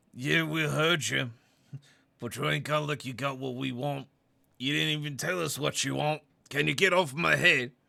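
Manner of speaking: very loud grunting. The person underneath answers the one on their head, grunted voice. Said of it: "in a grunted voice".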